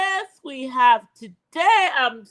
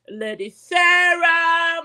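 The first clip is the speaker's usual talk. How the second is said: drawn-out hyped shout of the name; hype announcer call; 3 semitones higher, 6 dB louder, much slower than usual. Real, not acted. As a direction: call her in like a ring announcer. Hyping up co-host names.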